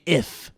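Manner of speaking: "if" set apart and stressed; a deliberate emphasis on "if". Real, not acted. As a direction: lean firmly on the word "if". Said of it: "put a big emphasis on the word if".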